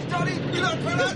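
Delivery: high wailing lament, put on; pretend horror. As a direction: fake distress over an accident. Staged horror at fake accident.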